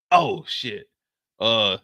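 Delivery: panting between words; winded, catching breath. Acted. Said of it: "why are you out of breath".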